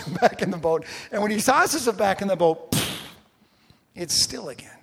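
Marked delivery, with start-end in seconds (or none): 2.7-3.0 imitated toss noise. Imitates Peter tossed into boat.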